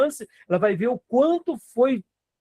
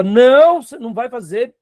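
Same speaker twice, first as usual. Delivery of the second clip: firm warning; 4 semitones higher, 6 dB louder than usual. Retold or imitated. Pastor retells firmly telling a drug user no. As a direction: lay down the law to a friend. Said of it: "eu falava pra ele com firmeza".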